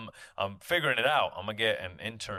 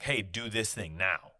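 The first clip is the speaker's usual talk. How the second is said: slow, flat order like a boss; bossy demand. Retold or imitated. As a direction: give a curt command, slowly. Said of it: "It's not like".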